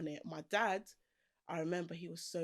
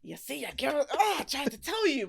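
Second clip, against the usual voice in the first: teasing told-you-so; 8 semitones higher, 8 dB louder than usual. Retold or imitated. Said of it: "it's like".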